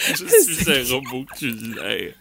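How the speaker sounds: slow, soft robotic repeat; lightly echoing the kid's robot line. Retold or imitated.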